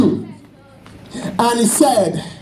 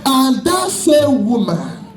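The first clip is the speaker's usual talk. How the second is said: forceful, emphatic sermon delivery; fervent preaching. Real, not acted. Preacher warning the congregation about false hair, fervent preaching.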